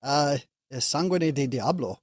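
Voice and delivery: put-on slow, lightly Hispanic accent; drawn-out Hispanic accent waiter. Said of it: "only way I can do a Hispanic accent".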